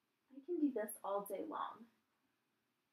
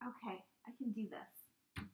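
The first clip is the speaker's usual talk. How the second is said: whispering; 6 dB quieter than usual. Real, not acted. Psyching self up, whispering.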